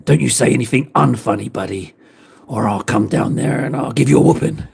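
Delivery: a lightly put-on American tough guy; mock American Fundy. Redoing friend in American accent, mock threat. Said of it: "he's American".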